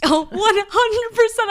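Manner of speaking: a squealing, drawn-out yes; excited affirmation. Real, not acted. Excited reply while retelling the ending.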